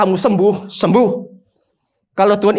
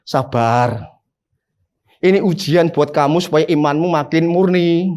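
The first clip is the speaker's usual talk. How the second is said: lower, gentle, calming word of comfort; soothing pastor; 3 semitones lower than usual. Retold or imitated. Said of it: "Gembala itu ngomongnya itu menyejukkan".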